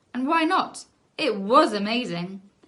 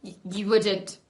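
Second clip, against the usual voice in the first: spluttering. Acted. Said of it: "spluttered Charlie".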